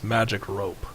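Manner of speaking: low gravelly growl; low gravel vigilante growl. Acted. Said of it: "you hear him say in a gravelly voice".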